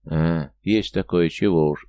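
put-on slow sighing drunk; town drunk. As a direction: sigh it out like a boozer. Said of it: "вздохнул парень, старательно имитируя действия запойного соседа".

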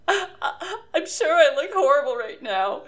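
a light put-on tearful voice; imitating sobbing. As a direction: play at crying without really crying. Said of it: "she's just sobbing".

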